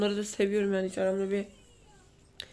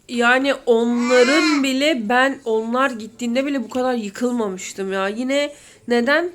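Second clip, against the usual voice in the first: crying, voice louder and slower; tearful, crying; 6 dB louder than usual. Real, not acted. Mother to viewers about her kids, crying. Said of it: "yani şimdi ağlayacağım yine".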